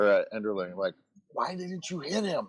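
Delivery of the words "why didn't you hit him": high, stagey stage whisper. Voicing a character who asks another character a question: stage whisper. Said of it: "stage whispering at Joe".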